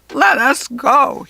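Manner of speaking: high, loud, slow squawking goblin; cranky goblin squawking to be freed. A narrator's reading. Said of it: "he squawked".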